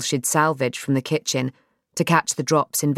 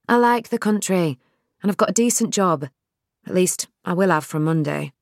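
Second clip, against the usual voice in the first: Nell's voice; 3 semitones higher than usual. Acted.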